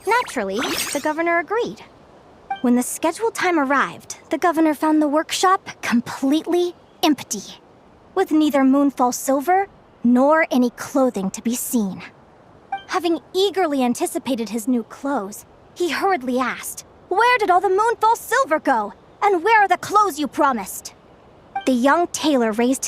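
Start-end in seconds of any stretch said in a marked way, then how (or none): 0.1-16.8 measured fairy-tale telling; storyteller narration. A narrator's reading. Storyteller telling children of the governor and tailor, measured narration. 17.1-20.9 higher, lightly acted indignation; mildly indignant demand. Storyteller voicing the governor questioning the tailor, mildly indignant.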